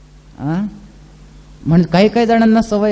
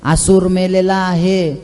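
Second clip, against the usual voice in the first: lower, gentle coaxing voice; sweet soothing words; 3 semitones lower than usual. Acted. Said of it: "फार गोड वाक्यामध्ये वीरभद्राने समजून सांगितलं". (गोड, शांत समजूत घालणारा आवाज)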